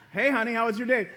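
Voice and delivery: laughing wife. Pretend. Acted wife greeting husband.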